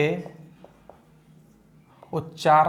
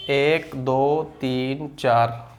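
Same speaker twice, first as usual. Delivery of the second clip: counting beats; much slower than usual. Shown as a demonstration. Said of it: "जैसे देखो".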